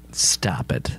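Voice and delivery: low whispered stop it. Real, not acted. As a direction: breathe it out under your breath. Whispered aside.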